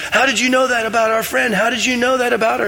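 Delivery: amazed friends. Retold or imitated. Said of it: "and they're like".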